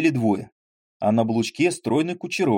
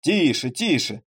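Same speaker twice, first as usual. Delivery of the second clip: shouting in protest; 5 semitones higher, slower than usual. Acted. Jolted ensign shouts at reckless Крутояров. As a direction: yell at the driver to slow down. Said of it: "крича".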